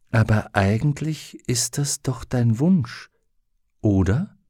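whispering; whispered inner voice. Acted. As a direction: breathe it like a voice within. Inner voice speaks.

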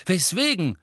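loud, high-pitched indignant question; angry. A narrator's reading. Harry challenges his teacher's penalty, angry. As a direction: fire back in protest. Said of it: "fragte Harry zornig".

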